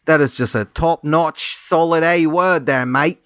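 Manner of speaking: slow, drawn-out mock Australian accent; badly faked Australian, stretching the words. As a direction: put on a poor Australian accent. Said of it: "Terrible accents".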